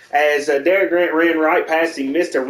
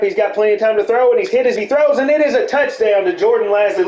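excited play-by-play; 4 semitones higher than usual. Real, not acted. Touchdown call in play-by-play.

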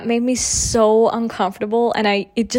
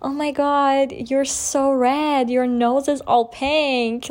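shocked receptionist; 4 semitones higher, much slower than usual. Retold or imitated.

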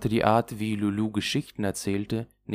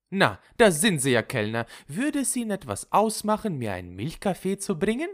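high, pointed mock-polite request; demanding Lulu to waiter; 11 semitones higher, 4 dB louder than usual. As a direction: buttonhole the waiter, pitched well up. (schnippisch fordernde Lulu)

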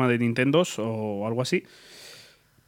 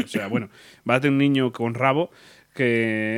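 trying not to laugh. Real, not acted. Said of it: "no te rías".

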